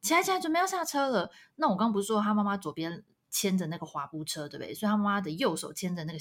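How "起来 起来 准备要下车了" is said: lightly voiced mum, pitched up; imitating a parent's brisk call to get up; mother hurrying child. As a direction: hurry a child along in a higher voice.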